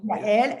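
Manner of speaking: Yael said as two syllables, ya-EL; name pronunciation. Shown as a demonstration. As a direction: show how to say Yael, ya-el. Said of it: "how do I pronounce it?".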